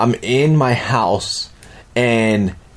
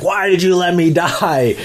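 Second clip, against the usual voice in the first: slow, higher, eerie voice of the undead head; ghostly dead man; 6 semitones higher than usual. Retold or imitated. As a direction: draw it out like a haunting accusation. Decapitated head speaks in dream.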